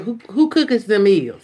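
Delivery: imitating the kid's country grammar; mimicking daughter. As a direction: say it like the daughter did. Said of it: "but she said".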